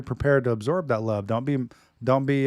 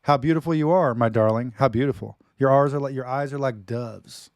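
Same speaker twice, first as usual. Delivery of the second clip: dramatic reading; 4 dB louder than usual. Acted. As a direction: declaim it like a lover's poem. Reads love poem dramatically.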